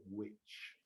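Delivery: witch spelled out slowly, said clearly. Shown as a demonstration. Teacher contrasting the noun bruxa: slow clear witch. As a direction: draw out witch so the noun stands apart. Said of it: "Não confundir com o substantivo bruxa".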